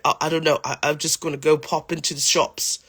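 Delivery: understated imitation of London English; modern English accent. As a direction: lightly mimic a modern Londoner. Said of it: "a little less, like, dramatic".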